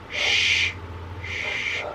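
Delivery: soft unvoiced shush; hushing. Real, not acted. Hushing the barking dogs softly.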